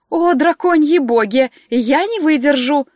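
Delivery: loud, slow dramatic lament; moaning exclamation. Acted. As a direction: wail it in despair, drawn out. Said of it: "застонал Доминико".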